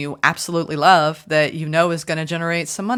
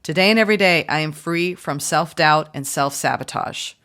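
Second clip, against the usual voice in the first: affirmation read; 3 dB louder than usual. Shown as a demonstration. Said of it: "Channel this phrase ten times today".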